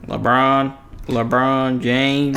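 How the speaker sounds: slowly stretched "LeBron James"; drawn-out name. Shown as a demonstration. Co-host saying the name on request, drawn out. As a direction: repeat the name with "James" held long. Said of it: "LeBron, say it".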